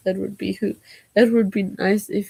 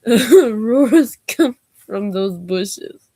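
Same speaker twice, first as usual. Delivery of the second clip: "bushes" said correctly, louder, slow, through laughter; laughing correction; 7 dB louder, slower than usual. Real, not acted. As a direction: fix the word "bushes" while cracking up. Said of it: "b-, those business".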